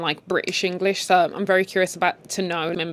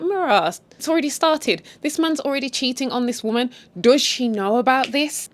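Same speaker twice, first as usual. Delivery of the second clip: scandalised; 5 semitones higher than usual. Retold or imitated. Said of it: "I'm like".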